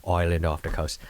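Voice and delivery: slipping into an Irish accent. Shown as a demonstration. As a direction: tell the backstory in a put-on Irish brogue. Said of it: "with this Irish accent".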